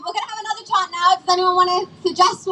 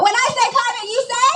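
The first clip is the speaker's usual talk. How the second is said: rally call; 5 semitones higher than usual. Real, not acted. Leader chant call.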